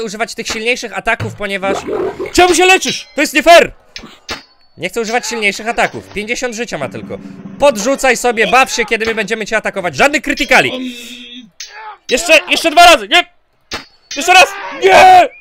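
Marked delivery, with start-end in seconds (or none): 2.3-3.7 high, loud cry of unfairness; loud gamer outrage; indignant shout. Real, not acted. Protesting at enemy healing in game. 12.1-15.3 high, loud gamer yells; loud, desperate outburst; frantic shouting. Real, not acted. Desperate shouting during game fight.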